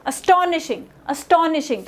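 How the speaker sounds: "astonishing" as a-STON-ishing; stress on TO. Shown as a demonstration. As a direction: bring out the TO sound in "astonishing". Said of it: "टीओ की जो sound है वो ज़्यादा आनी चाहिए".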